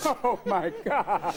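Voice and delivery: dragged-out, horrified groan; slow disgusted shock. Retold or imitated. Parent opening a dirty diaper, drawn-out disgust. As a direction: let the disgust stretch out. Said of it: "You open it up and go".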